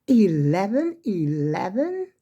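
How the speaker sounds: slow, drawn-out rising Eleven eleven?; half-playful surprise at the clock; amused wondering question. Real, not acted. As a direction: let Eleven eleven? rise slowly like spotting a lucky sign. Noticing the time is 11:11.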